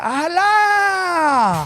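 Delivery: high, drawn-out mock Asian accent; thick Asian accent. Coffee shop lady greeting a customer, thick Asian accent. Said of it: "Thick Asian accent".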